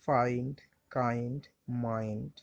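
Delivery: ফাইন্ড, কাইন্ড, মাইন্ড each with an "eye" glide; I pronounced "eye". Shown as a demonstration. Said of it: "আয়ের মতনই হবে". (ফাইন্ড, কাইন্ড, মাইন্ড-এ I-এর উচ্চারণ "আই")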